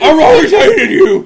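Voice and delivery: high, loud, drawn-out yell; hammed-up bitter cry; comic outburst. Player voicing whoever kicks a hole in the boat, hammed-up yell. Voices the rebelling boat-kicker.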